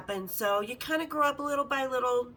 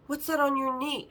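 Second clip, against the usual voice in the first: raised, insistent retold question; 3 semitones higher than usual. Repeats question after her "What?.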